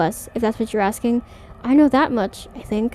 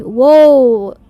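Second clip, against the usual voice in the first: startled; 9 dB louder than usual. Real, not acted. Sudden event mid-line.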